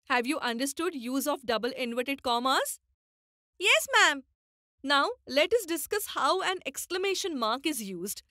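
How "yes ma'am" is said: pupils answering together, higher and louder; eager schoolchildren's chorus reply; the whole class calling back to the teacher. Acted.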